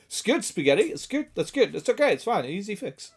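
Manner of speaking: lilting, placating little voice; reassuring clerk. Retold or imitated. Acting the phone guy reassuring Spaghetti, placating. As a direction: soothe with pitch hopping up and down. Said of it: "He's like".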